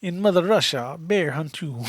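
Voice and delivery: put-on Russian accent joke line; deadpan Russian comedian voice. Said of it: "I wanted to do it".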